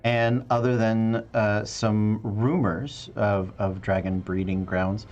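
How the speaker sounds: measured scene-setting with dramatic pauses; game master narration. Acted. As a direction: set the scene, pausing between phrases. Game master opens the session's story.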